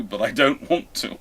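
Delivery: ordinary delivery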